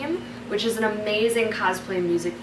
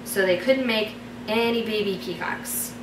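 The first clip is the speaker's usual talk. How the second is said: story narration. Acted. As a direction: read it like a bedtime story. Reads her fairy tale aloud.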